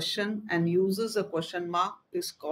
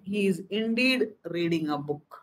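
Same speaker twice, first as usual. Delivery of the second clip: indeed said with firm emphasis; stress on indeed. Shown as a demonstration. Teacher demonstrating an emphatic sentence, stress on indeed. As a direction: lean on the word indeed. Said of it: "Emphatic sentences with emphasis, stress".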